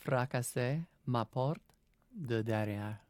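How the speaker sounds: "Fracasser ma porte de derrière" said slowly in French; slow, clear "Fracasser ma porte de derrière" in French; slow French demo. Shown as a demonstration. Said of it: "say that one more time".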